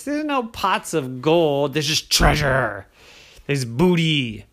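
a lightly voiced pirate, slow and scoffing; captain brushing off rainbows, lightly gruff. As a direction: drag it out like a gruff old sea dog.

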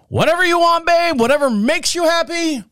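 high singsong brush-off; dismissive husband. Retold or imitated. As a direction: mimic a husband tossing it over his shoulder. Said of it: "he's got his back toward her".

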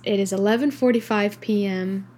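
sleepy, talking through a yawn; words stretched by a yawn. Real, not acted. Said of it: "I keep yawning".

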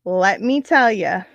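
slow, breathy whisper to the viewers. Acted. Whispering a teaser to her live viewers. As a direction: lean in and whisper it slowly.

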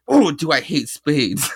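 hammed-up bigot sneering; mock villain hissy fit, drawn out; villain's hissy fit. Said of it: "starts getting a hissy fit".

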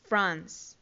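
"France" as one syllable ending in a long s; English pronunciation. Shown as a demonstration. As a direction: model "France" for learners, low pitch. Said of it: "Francia se dice". ("France" pronunciado en inglés, una sola sílaba)

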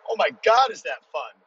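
high, loud burst of delight; excited. Real, not acted. Lifter raving to listeners about the jerk, high and excited. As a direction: gush about how fun it is.

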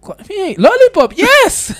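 high sing-song call. Retold or imitated. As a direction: call out the nickname teasingly. Calling out the lawyer's nickname.

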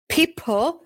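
People. jumps high, squeaky. Shown as a demonstration.

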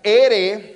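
ere with a single light tap; one quick tap of the tongue in ere; tapped R. Shown as a demonstration. Pastor contrasting the single tapped r. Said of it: "say it right".

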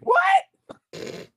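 squeaky shocked question; incredulous high "what". Retold or imitated. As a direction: pitch shoots way up in disbelief. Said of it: "I'm like".

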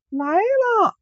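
very high, sweet sung-out reply; high, lilting girl's "来了"; sweet maiden's answer. Acted. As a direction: answer like an oriole singing. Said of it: "这声音跟黄鹂鸟一样啊".

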